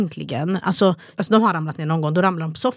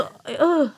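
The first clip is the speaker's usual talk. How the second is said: disgusted groan; 8 semitones higher than usual. Real, not acted. Disgust at child touching toilet brush.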